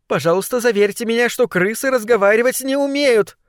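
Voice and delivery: high, worried question; getting anxious. A narrator's reading. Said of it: "заволновалась злокознь". (взволнованно, высоким голосом)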